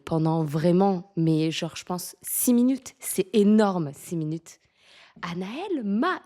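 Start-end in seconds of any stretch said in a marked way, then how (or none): 5.2-6.2 drawn-out, exasperated retold question; imitation agacée. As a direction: mimic an officer losing patience, stretching the words. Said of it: "Et elle, elle s'énerve". (imitation agacée d'une officière, en étirant les mots)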